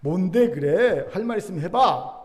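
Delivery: mock exasperated neighbor, slow opening; frustrated neighbor. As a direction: drag out the question in mild exasperation. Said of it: "옆집 사람이 답답하잖아요". (느리게 늘이는 답답한 이웃 말투)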